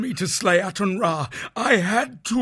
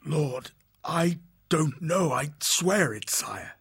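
much higher, slow, pleading captive; frightened pleading; 10 semitones higher, 3 dB louder, slower than usual. A narrator's reading. Bound prisoner pleading with his warlord, terrified. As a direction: beg for your life, voice thin with fear.

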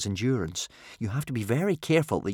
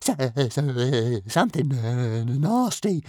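stammering little dragon, rising on last word; frightened stammer; 4 semitones higher, much slower than usual. A narrator's reading. Little dragon reporting danger below, stammering. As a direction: stutter it out, spooked. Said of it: "stammered Toothless".

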